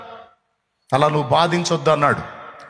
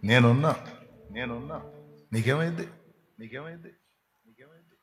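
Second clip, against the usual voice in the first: soft reassurance fading to nothing; fading comfort; 5 semitones lower, 8 dB quieter than usual. Retold or imitated. God soothing a troubled child, fading from soft to silent. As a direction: let the comfort fade away to silence.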